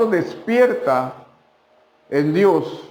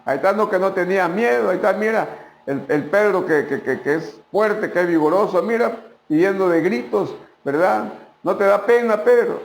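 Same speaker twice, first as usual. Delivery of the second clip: mocking taunt; 3 semitones higher than usual. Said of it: "los discípulos".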